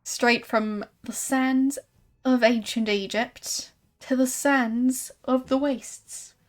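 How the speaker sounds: slow, lightly voiced showman's patter; sideshow huckster. Exhibitor selling a rare exhibit to a visitor, showy. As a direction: linger grandly over each selling point. Exhibitor continues his pitch.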